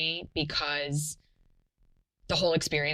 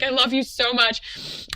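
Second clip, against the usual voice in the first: higher, louder, slow and gushing; overjoyed; 7 semitones higher, 6 dB louder than usual. Retold or imitated. Mother greeting her newborn son, overjoyed. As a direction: pour out love to the newborn.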